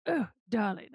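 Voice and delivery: put-on trying out the character's accent; Morty's accent. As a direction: ease into the accent with a catchphrase. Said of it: "kinda try and drop into Morty".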